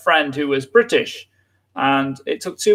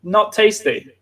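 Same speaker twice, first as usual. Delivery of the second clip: emphatic explanation; 7 semitones higher than usual. Real, not acted. Explaining dialect word.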